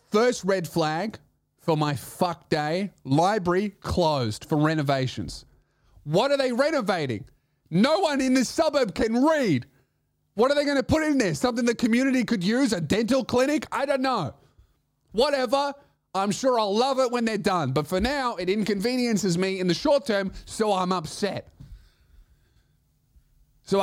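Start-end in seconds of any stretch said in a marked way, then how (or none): 6.0-17.7 high rant. Real, not acted. Ranting about library renovations.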